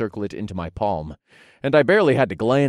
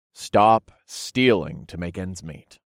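commanding; slower than usual. Acted. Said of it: "I commanded him".

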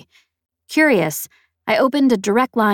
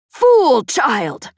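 put-on high, loud scorn from an old pirate; scornful scolding; 7 semitones higher, 5 dB louder than usual. A narrator's reading. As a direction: snap at the fool child. Peg scolds.

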